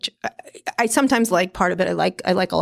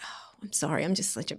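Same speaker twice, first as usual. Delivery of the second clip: much softer, fake-sheepish apology; mock apology; 4 semitones lower, 13 dB quieter than usual. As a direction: murmur a sorry you don't mean.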